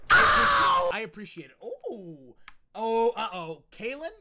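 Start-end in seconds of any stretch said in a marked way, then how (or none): 0.1-0.9 loud thanks. Real, not acted. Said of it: "It's like y'all think you're getting a special".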